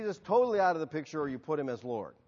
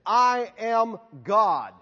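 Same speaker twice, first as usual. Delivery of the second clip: megalomaniac rant; 2 semitones higher than usual. Pretend. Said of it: "if I came in here this morning and made some of these outrageous claims".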